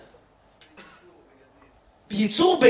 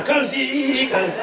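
mock French comme ci comme ça; slower than usual. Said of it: "כמו סטפן".

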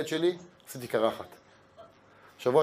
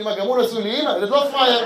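put-on cheeky child; 6 semitones higher, 5 dB louder than usual. Son's cheeky comeback.

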